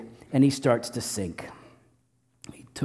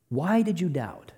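softer, patient fatherly question; a father gently asking his son to reflect; gentle question; 3 semitones higher, 4 dB quieter than usual. Acted. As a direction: ask it kindly, as a real question. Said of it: "like a good parent would".

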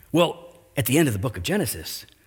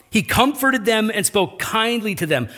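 1 astonished repeat; 8 semitones higher than usual. Real, not acted.

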